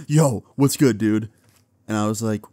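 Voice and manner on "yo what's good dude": excited greeting. Retold or imitated. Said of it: "with the biggest excitement in his voice".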